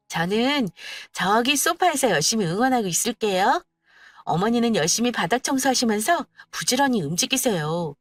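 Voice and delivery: sweet, teasing cheer for the mother-in-law; a hint of sly glee; cheeky daughter-in-law. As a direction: egg her on with mock sweetness. Narrator voices herself cheering mother-in-law.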